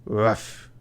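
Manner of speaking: a single mock bark; playful spoken "ruff"; dog bark. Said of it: "the captain began barking orders".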